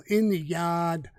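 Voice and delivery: slow, lightly imitated Boston accent, "yard" without the r. Quoting the masked YouTube hitman, a mild Boston accent. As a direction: stretch "in the yard" the Boston way, r dropped. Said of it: "That's a, that's a Boston accent".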